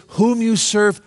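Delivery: preacher stressing the true text; emphatic quote. Shown as a demonstration. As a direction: lift "Whom you serve" up with emphasis. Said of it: "It says".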